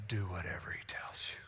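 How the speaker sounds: very low, soft instruction; solemn quoted command. Acted. Preacher quotes Mary's one command to the servants, hushed and solemn. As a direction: let the command land softly and low. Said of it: "one instruction we read from Mary's lips".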